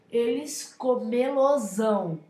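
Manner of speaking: "comelosão" said slowly, syllable by syllable, "lo" set into the verb; slow down to show "comelosão"; slow demo. Shown as a demonstration. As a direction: classroom demo word. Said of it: "tomam a forma também de lo".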